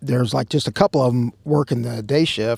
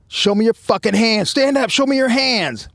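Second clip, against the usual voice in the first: barked police commands, raised high; commanding police yell; 8 semitones higher than usual. Retold or imitated. Chief yelling at hiding meth head, forceful commands. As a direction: order the suspect up like a cop with gun drawn. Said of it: "the chief's like".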